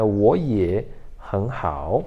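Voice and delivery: 我也很好 slowly, grouped as 我也 and 很好; tone change demo. Shown as a demonstration. Teacher shows how to say it, 我也很好 in slow tone pairs. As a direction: draw out each pair with rising 我 and 很. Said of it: "desse jeito".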